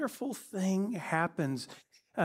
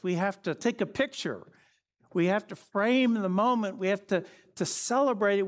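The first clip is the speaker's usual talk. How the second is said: louder, higher, quick excited planning; eager Peter; 5 semitones higher, 4 dB louder than usual. Acted. Peter urging Jesus to celebrate, excited and loud. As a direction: Peter rushing to preserve the moment.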